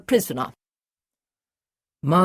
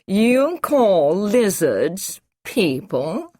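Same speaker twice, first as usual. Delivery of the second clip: slow, higher, disbelieving scoff; mock the very idea; 5 semitones higher, 4 dB louder, much slower than usual. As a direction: official scorning the doctor's word. Masters scoffs.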